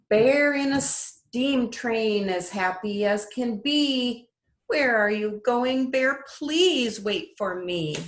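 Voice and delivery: lilting storybook read-aloud; sing-song picture book voice; reading to children. Acted. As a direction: read it like bedtime story time for little ones. Teacher reads picture book aloud.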